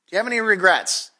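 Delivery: fast, pressing "Do you have any regrets?"; quick repeat. Shown as a demonstration. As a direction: fire the question back quickly. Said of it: "do you have any regrets in your life".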